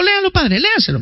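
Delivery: high, laughing push to read; gleeful nudge. Retold or imitated. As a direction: needle him while chuckling. Catholic nudging the priest.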